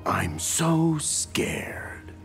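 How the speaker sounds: drawn-out, sarcastic pretend fright; mock fear. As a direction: feign being scared, very slowly. Taunting an opponent before a fight.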